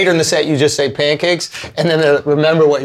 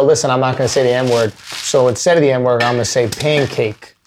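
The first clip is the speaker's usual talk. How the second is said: mock stage intro; 8 semitones lower than usual. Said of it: "why don't you go".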